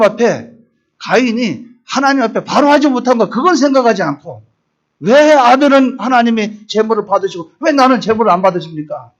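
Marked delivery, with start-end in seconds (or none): 5.0-9.1 mildly heated complaint, acting out Cain confronting God; indignant protest. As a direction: argue back as the aggrieved brother, a little raised. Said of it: "하나님께 막 따지는 거예요".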